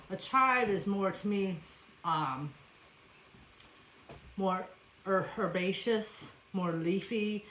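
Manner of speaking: usual speaking voice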